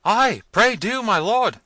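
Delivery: high, loud, frightened plea; frightened servants crying out. A narrator's reading. Servants pleading with Manfred, high and frightened. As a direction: servants begging their lord in fear. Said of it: "cried all the servants at once".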